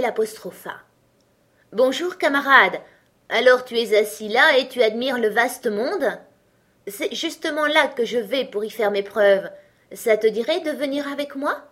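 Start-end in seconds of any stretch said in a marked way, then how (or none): 1.7-11.6 bold little tailor. Acted. Tailor greets giant boldly.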